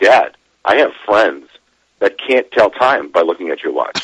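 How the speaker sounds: ordinary delivery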